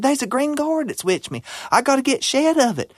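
put-on high, urgent old granny voice; granny begging the groundhog for help, high and frantic. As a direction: plead for help in a panic. Granny pleading to bobcat.

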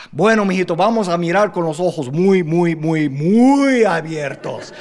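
"muy, muy, muy abiertos" stretched slowly; slow every "muy" right down; resigned dad drags out "muy abiertos"; drawn-out muy. Retold or imitated. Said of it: "And my dad said".

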